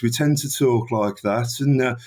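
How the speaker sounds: light Birmingham accent demo; Brummie accent. Shown as a demonstration. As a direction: lean slightly into your own Brummie. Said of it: "your listeners may know Brummie".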